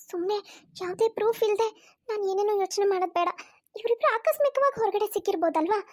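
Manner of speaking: mild shock turning to doubt; shocked wife. Acted. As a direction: catch her breath, then talk herself down. Wife sees husband with sister-in-law.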